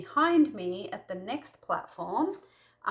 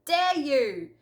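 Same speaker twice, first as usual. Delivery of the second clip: slow, scolding harsh voice; a stern, contemptuous rebuke; berating; 3 semitones higher, 3 dB louder than usual. Retold or imitated. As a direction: tear into him, word by word. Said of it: "berate Peter and go".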